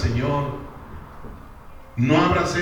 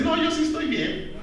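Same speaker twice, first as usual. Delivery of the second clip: mock self-satisfied voice; 12 semitones higher than usual. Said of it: "Unos dicen".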